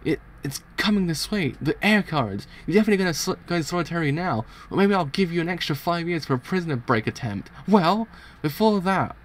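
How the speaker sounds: high, worked-up menacing voice; heated villainous tirade; acted angry threat. Guard threatens prisoner with punishment.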